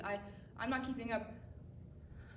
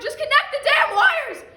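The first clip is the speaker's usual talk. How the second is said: slow, much higher, full-volume yell; furious shout; 21 dB louder, slower than usual. Acted. At the end of her rope, shouting furiously at herself. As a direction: explode at yourself. Frustration peaks.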